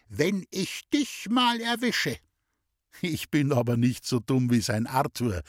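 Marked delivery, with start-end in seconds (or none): 0.1-2.2 higher, slow threatening gentleman; threatening call. A narrator's reading. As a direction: call it out, shaking a stick. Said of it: "hebt er immer seinen Stock auf und ruft".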